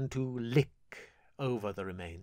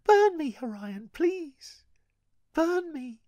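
put-on high, pleading girl's voice; desperate plea; 4 dB louder than usual. Gale begging her brother to burn her, high desperate plea. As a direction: beg him to burn her.

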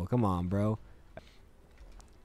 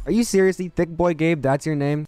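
high incredulous outburst; can't believe it; disbelief; 3 semitones higher, 4 dB louder than usual. Real, not acted. Reacting to enemy name.

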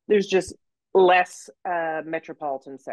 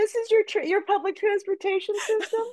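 higher, patronising mock surprise; condescending. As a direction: talk down like a snob. Mock condescending tourist, high voice.

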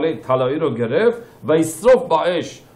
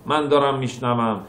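higher, louder and slow, full of pain; pained, slow, louder lament; anguished; 6 semitones higher, 4 dB louder than usual. Acted. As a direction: stretch it out like hearing torment. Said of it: "این صدای ناله و زجره".

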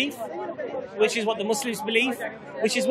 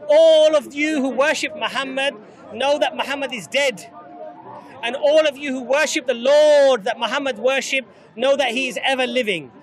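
proclaiming. Retold or imitated. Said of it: "he said to the people".

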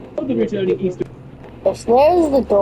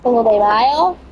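put-on a weak, half-hearted Mexican accent on Cinco de Mayo. Streamer tries a Mexican accent: half-hearted. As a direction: toss off a so-so Mexican accent, asking. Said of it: "I'm doing Mexican accent, but not my best".

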